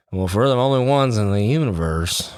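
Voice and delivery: put-on a faint, failed stab at a Texas accent; barely any Texas accent in the quote; weak Matthew McConaughey Texas accent. Quoting Contact to friends, hint of Texas accent. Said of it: "What is this accent?".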